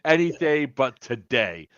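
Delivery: slow, emphatic mock refusal; retold firm refusal. Host retelling how he refused the woman, slow and firm. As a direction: draw out each word of the refusal.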